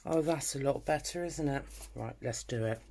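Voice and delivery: breathing hard while concentrating; audible breaths between words; heavy breathing. Real, not acted. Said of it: "sorry about the heavy breathing".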